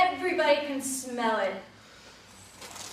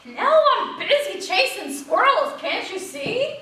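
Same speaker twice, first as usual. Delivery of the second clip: high, loud, excited dog; busy dog; 8 semitones higher, 8 dB louder than usual. A narrator's reading. Dog busy chasing squirrels, high and loud. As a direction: blurt it out mid squirrel chase. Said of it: "And the dog says".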